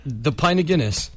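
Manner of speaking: lightly put-on Irish; feed a pub line in mock Irish; Irish accent. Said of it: "You're Irish".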